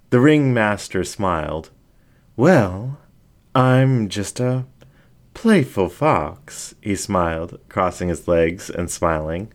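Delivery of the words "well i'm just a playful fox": higher, slow and teasing; coy fox voice. Acted. Fox flirting back at Jack, higher and slow. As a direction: stretch it out, playing innocent.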